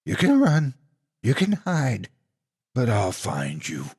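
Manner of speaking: taunt, then drop into menace; taunting monster. Acted.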